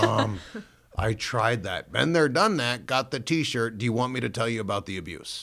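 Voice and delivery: loud, exasperated retelling of a son's protest; exasperated retort. Retold or imitated. Son cutting off mom's talk about Jesus, loudly exasperated. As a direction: push back hard, fed up. Retold outburst at preaching mom.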